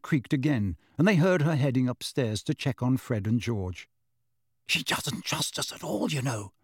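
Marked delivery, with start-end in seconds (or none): 4.7-6.5 soft and rueful; quietly sorry for himself; a touch of regret, softer; regretful. A narrator's reading. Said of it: "said Ron regretfully".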